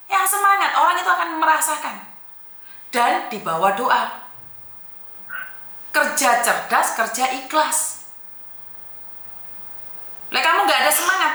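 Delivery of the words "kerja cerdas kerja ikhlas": very slow, each word weighed; drawn-out counselling maxim; slow, deliberate motto. Real, not acted. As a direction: spell out the motto slowly like advice to remember. Counselor states her work motto.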